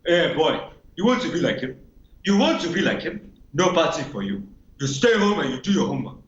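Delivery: scolding Nigerian parent, stern and repetitive; mild Nigerian-accented scolding. Acted. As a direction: tell the boy off like a strict Nigerian father. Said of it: "Nigerian guy".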